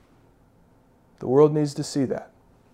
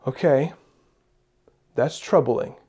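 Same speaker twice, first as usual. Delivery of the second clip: calm trust; 2 semitones lower than usual. Pretend. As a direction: speak like someone at peace. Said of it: "we can say".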